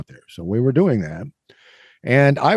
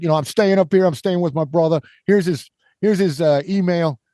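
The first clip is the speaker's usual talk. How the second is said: higher-pitched imitation of a New Yorker; mock New York accent; 6 semitones higher than usual. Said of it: "New York guy said".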